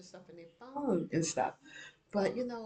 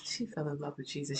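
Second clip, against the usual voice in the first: dropped to a softer, tender echo; softer repeat; 5 dB quieter than usual. Real, not acted. Mother recalling daughter's faith, softer repeat. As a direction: say it again, softly to yourself. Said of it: "Oh, she fell in love with Jesus".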